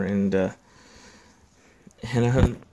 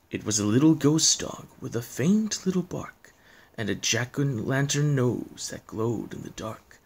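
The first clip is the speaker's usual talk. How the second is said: measured poem reading with pauses; storyteller reading verse; story narration; slower than usual. A narrator's reading. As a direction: recite it like a spooky bedtime tale.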